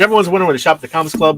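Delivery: loud, fast store-ad pitch; ad announcer voice. Acted. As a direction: rattle it off like a TV commercial.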